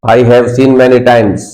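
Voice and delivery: very slow, each word spaced out; slow model sentence. Shown as a demonstration. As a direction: say it slowly for the class to repeat. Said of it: "बोलो".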